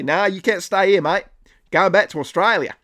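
lightly put-on Australian accent. Officials turning the newcomer back at the boat, mock Australian accent. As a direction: send him off like a mock Aussie official. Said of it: "why there are already Australians in Florida".

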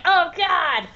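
a lightly acted "oh no" moment; monster's dismay. Retelling the monster's reaction, mock dismay. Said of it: "he was just like".

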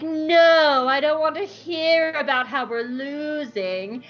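slow, stubborn governor voice; stubborn Ari. Acted. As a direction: drag out a spoiled refusal. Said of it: "And Ari is like".

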